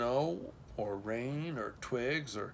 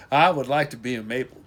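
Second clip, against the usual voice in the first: quick, breathless rush; panting; 8 dB louder, faster than usual. Acted. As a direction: blurt it out, panting. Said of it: "she panted".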